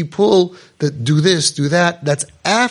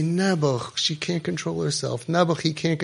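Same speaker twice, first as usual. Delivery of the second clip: much softer, pitying; 7 dB quieter than usual. Retold or imitated. Parents pitying a troubled child, voiced much softer. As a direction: sigh it out with sympathy.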